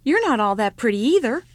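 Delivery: put-on loud, defensive child's retort. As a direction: hit back, a little stung. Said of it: "he said defensively".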